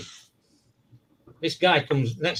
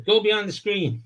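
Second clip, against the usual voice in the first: preacher voice; 8 semitones higher than usual. Retold or imitated. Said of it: "He says".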